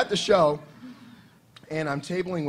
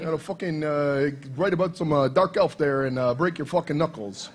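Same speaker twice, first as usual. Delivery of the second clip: mock gangster. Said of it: "gangster Bobby Salvatore".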